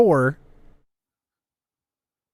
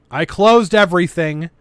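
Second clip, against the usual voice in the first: louder annoyed outburst; frustrated exclamation; 5 dB louder than usual. Real, not acted. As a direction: blurt it out in frustration.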